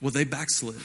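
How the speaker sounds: low, soft churchgoer's verdict; old school church. Retold or imitated. Pastor imitating old church folk judging someone, hushed old school church. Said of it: "say it in the old school church like this".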